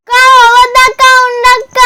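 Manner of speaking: put-on a scared child begging her sister to stay; pleading whine. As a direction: whine and drag it out. Child pleading not to be left.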